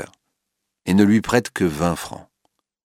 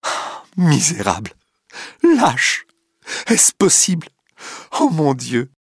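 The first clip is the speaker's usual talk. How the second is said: cries out; 8 semitones higher than usual. A narrator's reading. Clotilde in the cab, screaming insults at Duroy. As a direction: shriek your betrayal and disgust. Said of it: "crie Madame de Marelle".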